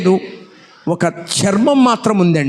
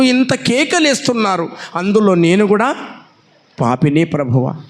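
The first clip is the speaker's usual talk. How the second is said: pleading prayer; 2 semitones higher than usual. Retold or imitated. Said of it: "అడుగుతున్నా తండ్రితో".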